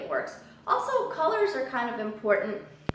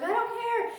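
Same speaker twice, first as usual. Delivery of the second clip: very high squeaky bird voice; parrot voice; 13 semitones higher than usual. Retold or imitated. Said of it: "She's like".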